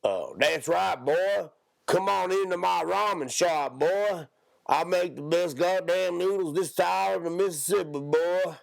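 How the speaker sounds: high, boastful hick voice; exaggerated Southern hick accent. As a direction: sell it like a cartoon hick. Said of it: "and then there's a hick".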